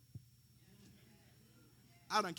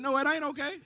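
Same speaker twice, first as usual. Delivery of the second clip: retold firm no; 10 semitones higher, 8 dB louder than usual. Retold reply to his son.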